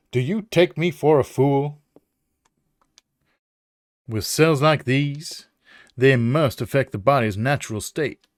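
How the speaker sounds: slow, haughty southern professor; southern accent. Acted. Professor disbelieving the officers' excuse, southern accent. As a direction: stretch it out in a southern drawl. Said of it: "I don't know why it's a southern accent".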